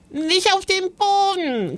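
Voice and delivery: sehr hoch, aber kaum lauter, gespielt kreischend; a mild mock shriek of the little ghost; gespieltes Kreischen. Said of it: "kreischte Joris". (hohes gespieltes Kreischen)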